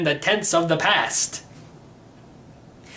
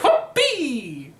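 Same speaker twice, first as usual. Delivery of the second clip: gleeful whoop; 6 semitones higher than usual. Real, not acted. Takeoff cheer.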